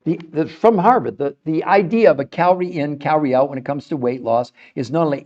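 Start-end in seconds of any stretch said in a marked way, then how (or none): none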